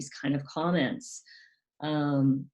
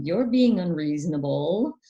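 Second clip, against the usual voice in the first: dismissive parent; 3 semitones higher, 5 dB louder than usual. Retold or imitated. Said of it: "a parent will say".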